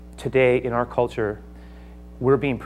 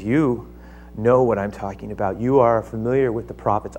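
earnest softer appeal; 3 semitones lower than usual. Acted. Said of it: "He turns to Agrippa".

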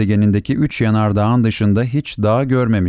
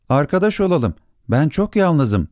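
lonely plea; 6 semitones higher than usual. Acted. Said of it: "dedi bu kez".

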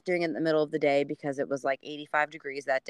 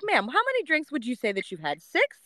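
higher, with a squeaky Six; cop voice; 8 semitones higher than usual. Retold or imitated. Police friend grilling the drunk neighbor, rising high. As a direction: question like an officer. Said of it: "She's like".

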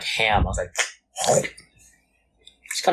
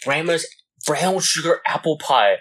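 slow, drawn-out mock of a white person praising pie; 4 semitones higher, slower than usual. Teasing white people's taste in pie, slow mock voice. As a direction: lightly parody a dainty pie lover, slowly. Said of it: "white people are like".

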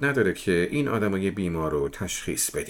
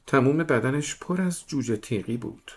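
put-on higher, childlike voice; little girl voice; 6 semitones higher than usual. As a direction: speak like a small serious girl.

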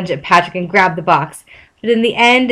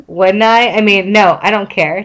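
defensive. Acted. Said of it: "Jack replied defensively".

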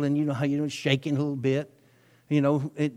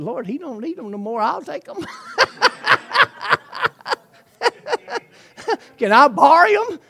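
joking plea; 12 semitones higher, 6 dB louder than usual. Retold or imitated. Preacher jokes asking the Lord.

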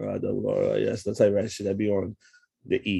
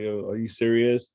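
drawn-out, retold "are you serious"; slow, mildly incredulous question; disbelieving question; slower than usual. Pulled-over biker questioning police, slow disbelief. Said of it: "Like, mad times in different ways".

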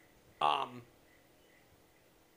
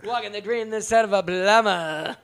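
slow, loud wrestling promo voice; 6 dB louder, slower than usual. Pretend. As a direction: growl it out like a wrestler. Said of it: "that's a little different voice".

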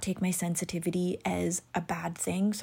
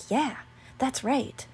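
mock mad agreement; 4 semitones higher, slower than usual. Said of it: "all of a sudden I'm mad and I'm like".

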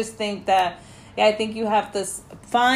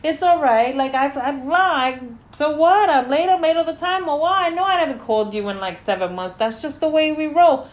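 sarcastic back-and-forth; 6 semitones higher than usual. Retold or imitated. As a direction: play both friends, teasing. Acting out a flaky friend exchange.

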